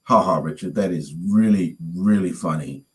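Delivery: unimpressed, humouring a prankster; deadpan fake ha-ha; sarcastic. Sarcastic call to suspected prankster.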